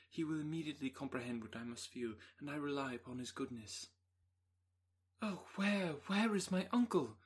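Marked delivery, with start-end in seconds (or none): 5.2-7.2 high, loud anxious cry; cried out. Acted. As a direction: call out in sudden alarm. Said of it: "cried Elizabeth".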